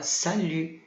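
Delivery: "Salut." with a rounded French U, T silent; crisp "Salut.", no T at the end; modelling "Salut." for the class. Shown as a demonstration. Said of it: "A gente fala U".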